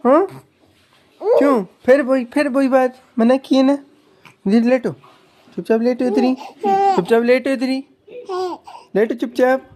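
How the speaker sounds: a touch of pretend crying while telling him off; mother fake-crying at her giggling baby, telling him to lie still; mock tearful scolding. Pretend scolding, crying sound heard.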